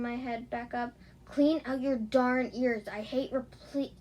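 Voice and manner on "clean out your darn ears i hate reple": shouting. Acted. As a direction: shout it, fed up. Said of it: "he shouted".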